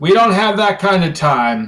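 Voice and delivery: yelling a little. In a role-play, a character answers from behind a door, yelling a little through it. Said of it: "he is supposed to be like yelling a little bit through the door".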